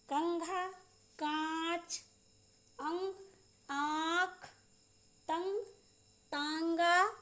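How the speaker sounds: "कंघा, कांच" apart, short nasal then long nasal vowel; nasal vowel drill. Shown as a demonstration. Teacher drilling bindi and chandrabindu words, careful dictation. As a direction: hold the nasal आ in "जांच", pausing between words. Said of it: "अंग व आ का उच्चारण".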